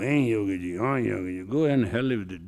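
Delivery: fed up, giving in loudly; fed-up outburst. Retold or imitated. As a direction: throw up your hands and snap back. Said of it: "One day I got fed up with it".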